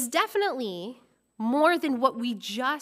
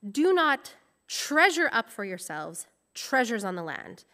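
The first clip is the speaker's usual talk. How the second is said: scripture reading. Acted. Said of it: "it would actually read".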